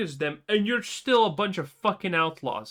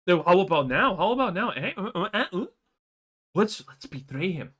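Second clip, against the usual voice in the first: low, wheedling mock voice; lightly voiced sneaky traitor; 5 semitones lower than usual. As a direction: needle him like a pushy schemer. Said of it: "he asks you again".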